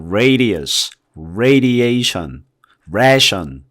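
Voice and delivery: radius and radiation slowly from the throat; throat A words. Shown as a demonstration. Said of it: "목에서 소리가 나는". (목에서 내는 느린 A 단어들)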